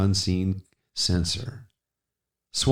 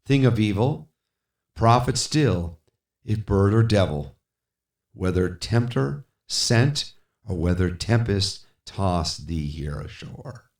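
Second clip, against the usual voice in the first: raised, urgent pleading; fervent address. Acted. Speaker confronts the raven, raised and urgent. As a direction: press the bird hard.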